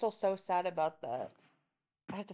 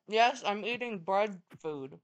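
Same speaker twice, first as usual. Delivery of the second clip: mouth full; 3 dB louder than usual. Real, not acted. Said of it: "my mouth is full".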